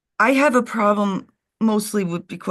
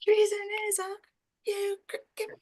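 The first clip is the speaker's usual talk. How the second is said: laughing imitation; 13 semitones higher, 6 dB quieter than usual. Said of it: "Oh, you did say it".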